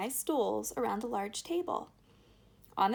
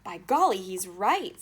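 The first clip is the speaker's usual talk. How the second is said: amazed; 8 dB louder than usual. A narrator's reading. Grandpa Joe amazed.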